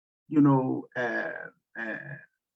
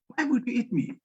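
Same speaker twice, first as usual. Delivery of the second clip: higher, pleading woman's question; woman facing the lion, higher and pleading; frightened woman; 8 semitones higher than usual. Acted. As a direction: ask in disbelief as the scared woman.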